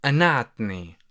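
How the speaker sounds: أنعتني starting with a glottal stop instead of q; glottal stop qaf. Shown as a demonstration. Teacher showing the dialect glottal stop in أنعتني. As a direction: swap the qaf in أنعتني for a catch in the throat. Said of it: "you would say".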